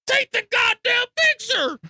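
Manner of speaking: high, loud, slow yell; excited scream. Retold or imitated. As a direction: shout it urgently while hauling in a huge fish. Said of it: "I was screaming at him like this".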